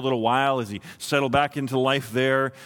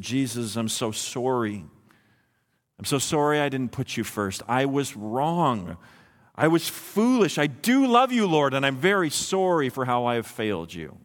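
penitent prayer; 3 semitones lower than usual. Acted. Preacher voicing a kneeling believer's prayer to Jesus, contrite. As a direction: confess humbly, rise in earnest, then sink back. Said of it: "got down on your knees".

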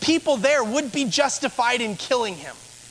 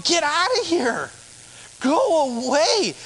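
higher-pitched mock yell; 5 semitones higher than usual. Crowd driving the leper away, acted yelling. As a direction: order him off in an acted yell. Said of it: "Did they yell at him".

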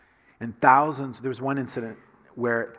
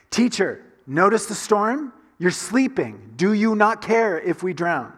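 louder, higher, slow urgent plea; frightened disciples; 6 semitones higher, 6 dB louder, slower than usual. Acted. Disciples shouting at sleeping Jesus during storm, scared and pleading. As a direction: wake him in the storm.

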